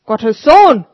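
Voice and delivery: put-on old street sweeper, moved; grateful old sweeper. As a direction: thank him humbly but heartily. Sweeper asks.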